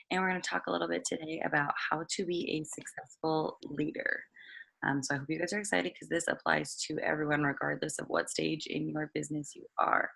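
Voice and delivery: hoarse, raspy throat. Real, not acted. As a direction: speak through a raspy voice. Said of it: "Sorry about my raspy voice".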